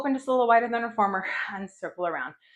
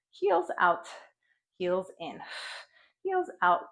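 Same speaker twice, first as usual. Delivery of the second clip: shaking with effort; slower than usual. Real, not acted. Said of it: "Ooh, my legs are shaking".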